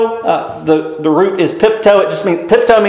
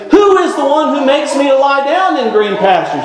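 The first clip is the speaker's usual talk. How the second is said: teacherly quiz question; 6 semitones higher than usual. Retold or imitated. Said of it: "I say".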